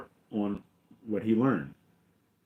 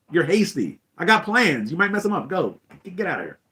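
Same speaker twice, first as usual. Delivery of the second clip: higher, louder comic paraphrase of a boss; mock impatient dismissal; 7 semitones higher, 5 dB louder than usual. Emperor sends Vader off to the command ship, impatient. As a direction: shoo an underling away, hammed-up.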